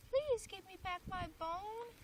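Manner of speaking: high, slow, eerie little voice; small ghostly voice. A narrator's reading. Ghost pleading to the woman for its bone, small eerie voice. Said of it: "she heard a small voice".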